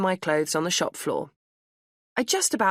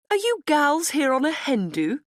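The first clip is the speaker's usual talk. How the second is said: high, louder trilling through a grin; trilling posh lady; 10 semitones higher, 5 dB louder than usual. A narrator's reading. Posh older woman greeting the group, high trilling grin. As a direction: trill it like a jolly posh dog walker. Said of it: "she trilled through a grin".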